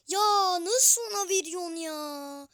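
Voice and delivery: ağlamaklı, yüksek sesli sitem; sızlanma. Real, not acted. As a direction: oyuna ağlar gibi yakın. Yanlış pasa sızlanma. (yanlış pasa ağlamaklı sitem)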